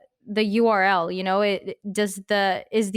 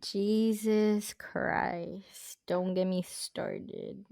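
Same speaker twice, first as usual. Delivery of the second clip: slow, weary groan of frustration; exasperated; 9 dB quieter, much slower than usual. Real, not acted. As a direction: drag it out, fed up. Exasperated reaction to media question.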